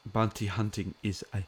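put-on a light German Herzog accent; Werner Herzog impression. Fan doing a Herzog line on stream, in a German accent. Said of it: "Werner Herzog".

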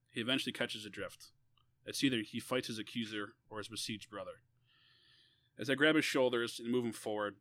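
measured, deliberate read-aloud; story reading. A narrator's reading. Author reading an essay about defending a brother, measured narration. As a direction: read it out in phrases with pauses.

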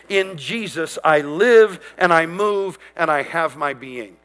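slow, deliberate morning declaration; bold declaration. Shown as a demonstration. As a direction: proclaim it slowly, meaning every word. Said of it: "make this declaration".

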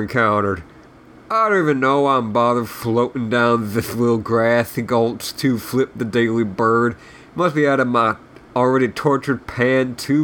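irritable officer, lightly voiced, lisping; surly lisping Southern general. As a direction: grumble insults with a touch of Southern lisp.

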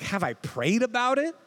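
exasperated disbelief, tossing the question back; incredulous echo. Retold or imitated. Mocking the question from a friend, incredulous. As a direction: act outraged at being asked. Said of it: "I'm like".

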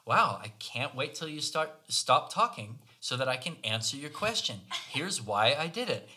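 smart-ass reply. Retold or imitated. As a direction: act out a smug, curt comeback. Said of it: "did my total smart ass thing".

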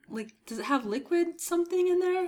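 speaking past cough drop bits; mouth full. Real, not acted. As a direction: mouth full while talking. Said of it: "my mouth is full of crap".

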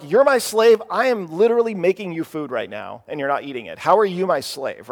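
acted exasperated comeback; indignant parent. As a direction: imitate a fed-up parent arguing back. Acted indignant parent answering the kids.

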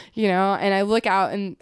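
ordinary talk

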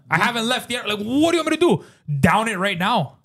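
high, mock-exasperated; a senior official voicing the traveler's frustration. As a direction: pitch it up in disbelief. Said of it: "he's like".

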